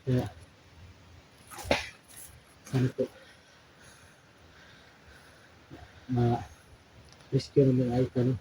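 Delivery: slow, soft, hushed plea; whispering while hiding. Pretend. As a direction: drag it out softly, hiding. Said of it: "hinahinaan natin yung boses natin".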